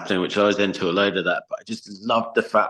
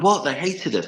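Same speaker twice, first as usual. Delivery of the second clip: higher-pitched mock disbelief; retold bewildered protest; 9 semitones higher than usual. Band member answering the tour manager, mock bewildered protest. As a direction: protest as if caught off guard. Acted reply to shouting manager.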